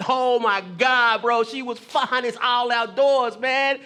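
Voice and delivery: slow, loud, stretched-out admiration; drawn-out gushing. Real, not acted. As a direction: drag out each word in awe. Gushing about ex-girlfriend.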